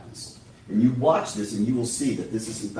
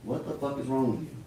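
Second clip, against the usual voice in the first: quieter, level restatement of the curse; soft, weighty echo of the scream; hushed repeat; 5 dB quieter than usual. Shown as a demonstration. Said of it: "same quote repeated, hushed".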